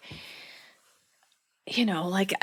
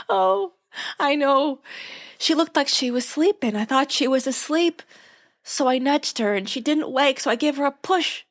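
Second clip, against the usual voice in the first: much higher, breathless gossipy retelling; Babette's dramatic telling; 5 semitones higher than usual. Retold or imitated. Babette telling Lorelai how the cat died, high and dramatic. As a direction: spill the whole mishap in one high rush.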